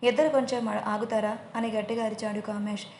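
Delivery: ordinary delivery, nothing marked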